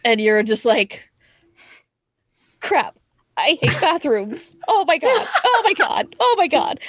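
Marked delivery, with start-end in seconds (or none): 2.6-6.8 high, mock-panicked muttering; squeaky fake horror-movie dread. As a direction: act out dreading the bathroom. Acting her own scared thoughts.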